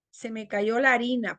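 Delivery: "la harina" run together as larina; fuse "la harina" into one a; vowels merged. Shown as a demonstration. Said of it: "Reducción de hiato a vocal".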